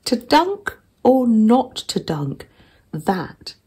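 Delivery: grand and slow, then sinking to a whisper; mock Shakespeare recital. Dunking a biscuit, she plays Hamlet with mock gravity. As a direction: hams up Hamlet's line, then hushes it.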